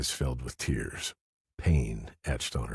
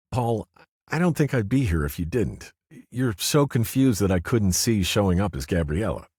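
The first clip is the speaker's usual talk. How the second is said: higher, gentle woman's voice; female character voice; 7 semitones higher, 4 dB louder than usual. A narrator's reading. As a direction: voice her up, kindly. Cynthia's voice in the story.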